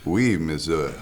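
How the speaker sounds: playful attempt at a French accent. Shown as a demonstration. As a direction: try out a French accent for a rating. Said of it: "So, rate my accent".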